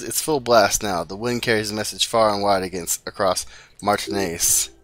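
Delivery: ordinary delivery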